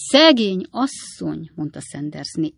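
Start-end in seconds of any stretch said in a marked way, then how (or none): 0.1-1.5 pitying. A narrator's reading. Second neighbour echoes the pity.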